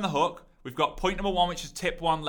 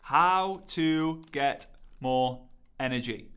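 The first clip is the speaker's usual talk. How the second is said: slow typing read; 2 semitones lower, much slower than usual. Shown as a demonstration. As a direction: read out slowly, word by word. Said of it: "type in".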